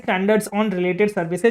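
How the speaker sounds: slow, word by word, so they can write; slow dictation. Shown as a demonstration. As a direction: spell it out very slowly for notes. Dictating term for notes. (बहुत धीरे, लिखवाते हुए)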